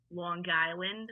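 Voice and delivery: Long Island accent on the place name; drawn-out Long Island pronunciation. Shown as a demonstration. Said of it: "I purposefully say it the way that a Long Islander says it".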